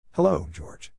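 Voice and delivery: a hint of a grinning prankster; lightly voiced twin. A narrator's reading.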